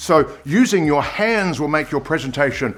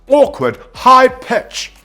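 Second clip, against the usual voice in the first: high, louder nervous pitch; awkward high pitch; 10 semitones higher, 6 dB louder, slower than usual. Shown as a demonstration. Coach mimicking nervous speakers, awkward high pitch. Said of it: "they speak in this awkward, high pitch".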